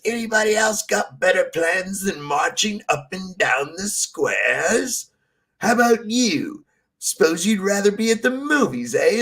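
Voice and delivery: mock drill sergeant. Retelling the sergeant in the sketch.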